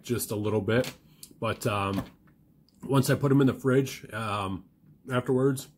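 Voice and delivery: talking while chewing; words round a bite of food; mouth full. Real, not acted. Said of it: "Sorry, I'm talking with my mouth full".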